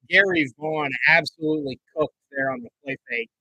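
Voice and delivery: animated broadcast play-by-play, British-free, American sportscaster. Acted. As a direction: call every snap like live TV.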